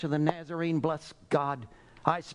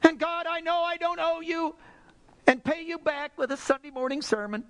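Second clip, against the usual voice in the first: high, urgent prayer from the pulpit; fervent preacher confessing aloud; impassioned preaching; 11 semitones higher than usual. Real, not acted. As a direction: pour it out to God, pitched way up. Preacher prays with full force.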